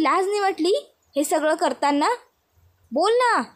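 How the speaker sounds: imitating a furious mother-in-law, lightly voiced; retold scolding. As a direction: demand answers like an outraged mother-in-law. Mother-in-law scolds Janaki in retelling.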